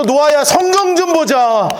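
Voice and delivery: rally yourself awake; rousing self-wake call. Shown as a demonstration. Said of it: "정신 차리면서 두 뺨을 치면서".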